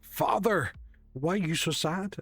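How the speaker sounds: dog's voice. Acted. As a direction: speak for a pet dog, slightly high and tender-hearted. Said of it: "in her dog kind of growls and barks".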